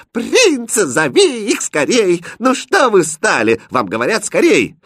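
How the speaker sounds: gleeful high cry of an eager princess; весёлый крик. Acted. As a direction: call out loudly, high and impatient. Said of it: "весело закричала". (радостно, звонко кричит)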